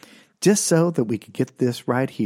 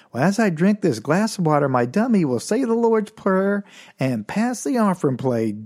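ventriloquist act; 4 semitones higher than usual. Retold or imitated. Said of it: "ventriloquist up there going".

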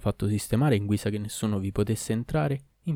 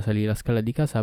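usual speaking voice

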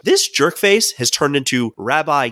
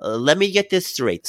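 "Uh, let me get this straight" with a light Yiddish rabbi lilt, a bit higher; Yiddish accent; 4 semitones higher than usual. Shown as a demonstration. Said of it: "should I do the accent".

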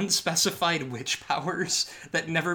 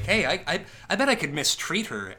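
put-on sleazy boyfriend voice; 4 semitones higher, 3 dB louder than usual. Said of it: "and he's like".

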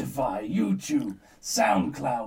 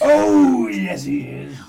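panto crowd callback; 9 dB louder, slower than usual. Pretend. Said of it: "That's how pantomimes go".

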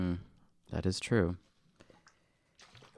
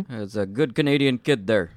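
Don Cherry impression; 3 dB louder than usual. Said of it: "That was my Don Cherry".

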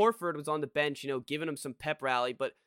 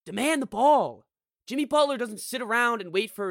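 frustrated shout; 6 semitones higher, 6 dB louder than usual. Real, not acted. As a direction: bark it at him like a fan at the TV. Frustrated fan yelling at player.

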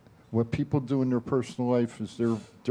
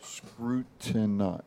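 drawn-out Scrutini- at half speed; slow deliberate word; 3 dB quieter, much slower than usual. Shown as a demonstration. Trying to count the syllables on air, slowly. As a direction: sound out Scrutini- slowly, then lose the thread. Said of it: "I'm gonna give my word for the day".

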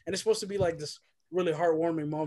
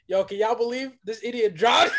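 amused jeer breaking into laughter; imitating mocking laughter; 2 semitones higher, 4 dB louder than usual. Mom tells the family at lunch, laughing mockingly. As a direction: tell it as a joke, cracking up. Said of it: "they're all laughing at me".

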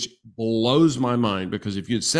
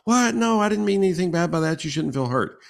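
surprised protest; 8 semitones higher than usual. Retold or imitated. Wife waving away husband's hurt, high startled protest. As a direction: brush off his hurt with a startled, quick denial. Wife's reply, retold again.

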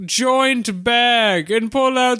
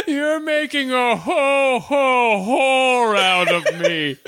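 laughing. Real, not acted. Laughing pun rant.

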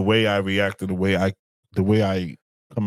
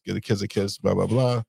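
normal talking voice

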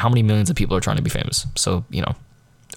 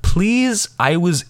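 squeaky high "Please"; mock desperate plea; high pleading; 8 semitones higher, slower than usual. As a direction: beg her to drop it. Begging teacher to stop.

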